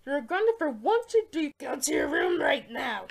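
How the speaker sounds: yelling a punishment; angry parent shout. Acted. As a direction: send him to his room, furious. Parent grounding child.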